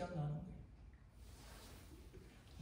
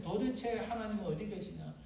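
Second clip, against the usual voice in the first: acted cry of protest, swelling midway; 5 dB louder than usual. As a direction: build into a loud accusing question. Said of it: "막 그렇게 외치는 거예요". (항의하듯 점점 커지는 외침)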